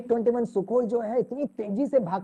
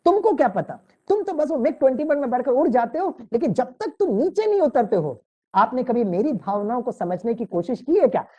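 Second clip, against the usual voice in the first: mock scolding wife; 4 semitones higher than usual. Wife scolds pilot husband.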